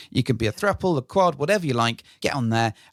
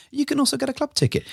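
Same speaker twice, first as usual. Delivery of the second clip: fast high advert rattle; chipmunk voice; 13 semitones higher, faster than usual. Real, not acted. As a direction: rush it like a sped-up radio ad. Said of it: "like one of these paid adverts that, like, talks really fast".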